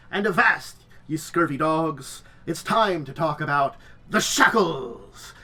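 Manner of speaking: slow, hammy pirate bellow. Acted. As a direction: growl it out like a ship's captain. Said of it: "I'm gonna try to do the pirate voice".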